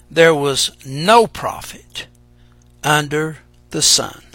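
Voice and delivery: measured, solemn reading of scripture. Acted. Preacher reading Ecclesiastes aloud to the church, solemn.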